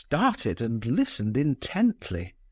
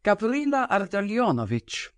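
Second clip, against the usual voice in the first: grave, forceful declaration; solemn and forceful; 9 semitones higher than usual. A narrator's reading. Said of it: "she spoke solemnly and forcibly".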